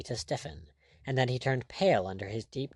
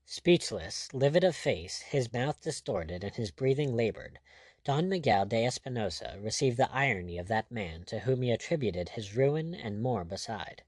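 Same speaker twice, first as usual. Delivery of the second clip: plain reading voice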